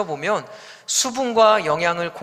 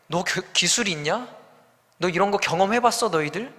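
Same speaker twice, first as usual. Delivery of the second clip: sarcastic jeer. Retold or imitated. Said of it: "비꼬는 것이죠".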